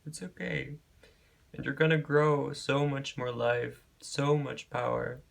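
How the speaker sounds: moved reader reassuring a stranger, choked up; getting emotional. Real, not acted. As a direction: hold back real tears while reassuring. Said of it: "I'm getting a little emotional".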